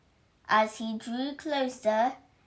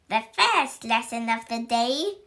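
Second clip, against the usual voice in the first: witch teacher announcing; 3 dB louder than usual. Acted. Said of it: "announced Miss Bell".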